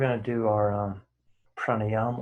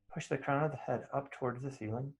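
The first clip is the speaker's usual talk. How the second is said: calm guiding voice with unhurried pauses; guided meditation. Real, not acted. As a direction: settle them gently into stillness. Leads settling into meditation.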